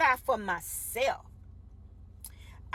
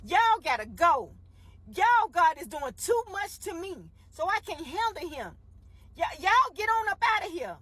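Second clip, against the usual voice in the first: Pharaoh begging them to leave, voice raised; Pharaoh's plea; 5 semitones higher than usual. Retold or imitated. Pharaoh begging Israel to go, raised plea. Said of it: "had to soften down and say".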